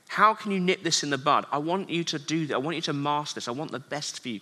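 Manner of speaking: a counselor gently drawing him out; gentle coach. Pretend. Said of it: "kind of like a coach, a counselor".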